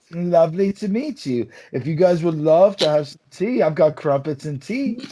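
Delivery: lightly voiced British host; a hint of a posh English offer; mock British accent. Offering friends tea in a light mock British accent. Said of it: "Do your best British accent".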